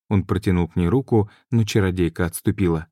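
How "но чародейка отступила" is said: usual speaking voice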